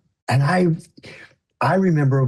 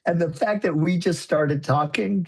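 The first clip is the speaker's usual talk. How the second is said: fighting back tears while laughing; choking up; 4 semitones higher than usual. Real, not acted. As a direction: voice catching with real tears. Moved retelling the meeting.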